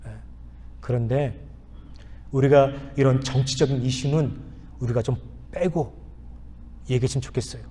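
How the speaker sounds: calm request. Retold or imitated. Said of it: "제가 아주 차분하게 얘기했습니다".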